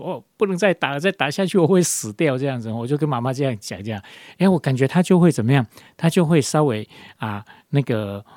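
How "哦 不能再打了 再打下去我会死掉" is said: mock childish pleading, a bit higher; retold plea not to be beaten any more; child begging mother. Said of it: "我就会哀求说". (小孩向妈妈哀求别再打，略带假装的哀求语气)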